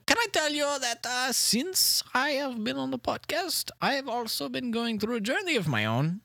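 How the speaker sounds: comic put-on French accent. Little man tells the host about his voice, mock-French. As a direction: talk like a cartoon Frenchman. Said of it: "Yeah, you've gone French".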